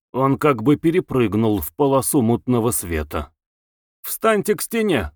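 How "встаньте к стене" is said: sharp, high command to the prisoner; too loud an order. A narrator's reading. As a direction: bark it far too loudly. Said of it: "слишком громко приказал". (слишком громкий приказ)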